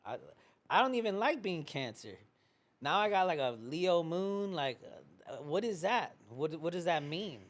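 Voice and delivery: lightly voiced confused Cancer puzzling over a Leo moon; confused imitation. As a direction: play someone lost in their own horoscope, baffled. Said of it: "It's like".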